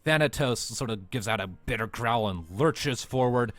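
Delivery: vivid combat narration; game master narration. A narrator's reading. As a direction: paint the fight for the players.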